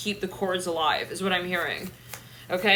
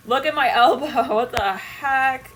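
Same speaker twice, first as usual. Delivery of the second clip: laughing disbelief; 4 semitones higher, 5 dB louder, slower than usual. Real, not acted. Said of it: "laughing at a card".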